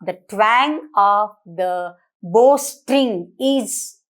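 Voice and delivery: twang drawn out slowly and leaned on; stress on twang. Shown as a demonstration. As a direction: slowly hit the word twang in "The twang of the bow string". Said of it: "it is said twang".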